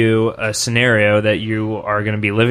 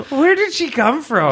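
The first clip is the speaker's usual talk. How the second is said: high squeaky voice; 13 semitones higher than usual. Acted. High voiced improv character.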